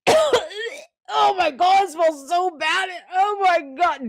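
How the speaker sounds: the class exclaiming at the stench, loud and high; mock shout. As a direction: imitate a roomful of gagging girls. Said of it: "So everyone is like".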